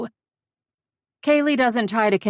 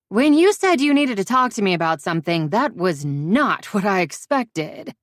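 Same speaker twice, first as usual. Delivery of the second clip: stunned friend; 3 semitones higher, 5 dB louder than usual. Acted.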